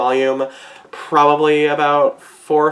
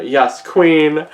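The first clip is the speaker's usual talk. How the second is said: louder, punchy yes queen with queen stressed; emphatic cheer; 3 semitones higher, 4 dB louder than usual. Real, not acted. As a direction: land queen hard and falling. Hyping up the manga.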